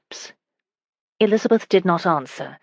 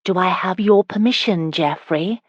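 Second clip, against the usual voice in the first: lightly teasing question. Acted. Wife asks husband's permission to kiss, teasing. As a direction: tease with a lift at the end. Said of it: "she teased".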